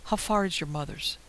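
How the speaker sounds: a touch of rasp, tired and strained; ragged voice. Acted. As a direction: speak through a worn, ragged voice. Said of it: "Alice cut the tension with her now ragged voice".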